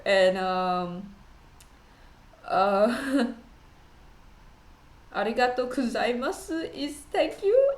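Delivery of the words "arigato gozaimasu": "Arigato gozaimasu" said quietly in weak Japanese accent; Japanese thanks. Shown as a demonstration. Learner thanking viewers in Japanese, softly. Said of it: "my Japanese accent ain't strong enough".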